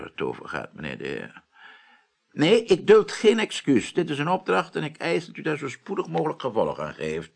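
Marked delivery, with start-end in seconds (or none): 2.3-7.3 stern command. Acted. Commanding on phone.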